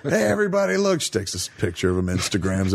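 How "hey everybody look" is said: mock announcing. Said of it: "girlfriend posting".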